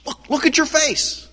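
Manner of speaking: high, strained rasp of a healed leper; raspy leper voice. Retold or imitated. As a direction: croak it out like a man with a damaged larynx. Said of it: "in this kind of raspy voice".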